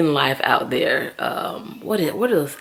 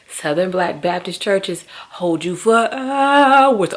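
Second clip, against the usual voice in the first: slow and deliberate, leaning on hours; slow emphatic proclaim; 2 semitones higher, 4 dB louder, slower than usual. Real, not acted. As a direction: preach it out word by word.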